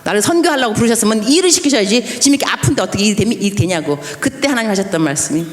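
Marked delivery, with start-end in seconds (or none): 0.0-4.0 serious plea. Retold or imitated. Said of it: "seriously, 심각하게 말하는 거야".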